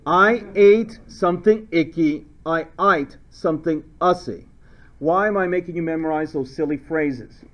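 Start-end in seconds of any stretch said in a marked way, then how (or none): 2.4-4.4 mock Australian, ATE said like "ite"; playful Australian vowels; Australian accent. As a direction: switch into a joking Aussie accent. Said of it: "if you're Australian".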